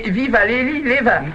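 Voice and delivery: high, garbled magic formula; tongue-twister attempt. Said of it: "faut le dire trois fois sans respirer".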